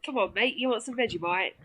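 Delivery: soft go at a broad Aussie accent; understated, slightly hammed Aussie twang; thick Aussie accent. Shown as a demonstration. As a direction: have another try at hillbilly Australian. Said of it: "both had a horrible Australian accent".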